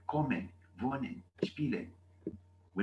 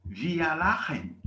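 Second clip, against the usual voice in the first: spoken slowly and clearly; slow demo; 3 semitones higher, 4 dB louder, slower than usual. Shown as a demonstration. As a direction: lay it out slowly for learners. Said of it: "you know what I mean".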